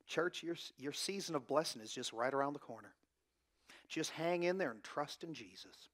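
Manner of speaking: a hint of a smooth TV prosperity preacher; mild mock televangelist promising blessings; prosperity preacher accent. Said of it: "I'm gonna do it in a good accent here".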